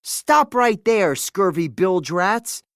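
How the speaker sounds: slow, loud challenge; mock-stern challenge. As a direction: stand your ground and bark it out. Boy confronting intruding pirates.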